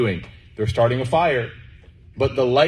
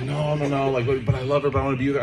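higher, stammering lovesick objection; mock protest; 4 semitones higher, faster than usual. Friend brushing off advice about dating, higher-pitched mock protest. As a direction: plead it as an imitated smitten friend.

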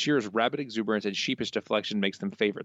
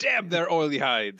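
Burns voice; 5 semitones higher than usual. Acted. Co-host answers in Burns voice.

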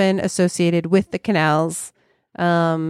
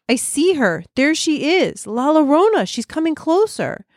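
put-on high-pitched, alarmed cries of a child; frightened boy's yell; 9 semitones higher than usual. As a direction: call out in terror as the son. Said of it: "he yelled".

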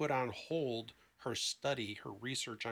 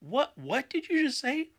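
high, loud startled outburst; a friend cutting in, loud and high with surprise; shocked interruption; 13 semitones higher, 11 dB louder than usual. Retold or imitated. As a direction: burst in, caught off guard by what he just said. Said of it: "the people he was talking to said".

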